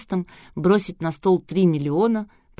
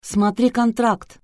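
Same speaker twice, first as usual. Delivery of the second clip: sweetly; 5 semitones higher, 4 dB louder, slower than usual. A narrator's reading. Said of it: "ласково улыбнулась Анастасия".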